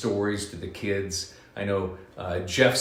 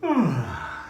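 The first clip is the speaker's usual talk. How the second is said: big bear yawn; 3 semitones higher than usual. Acted. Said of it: "with a yawn".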